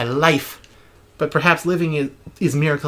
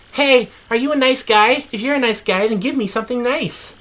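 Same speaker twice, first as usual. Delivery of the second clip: calling voice; 6 semitones higher than usual. Acted. Distant voice calling.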